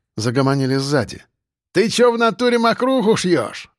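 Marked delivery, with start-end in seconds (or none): 1.7-3.7 thug's yell. A narrator's reading. Thug yelling from the back.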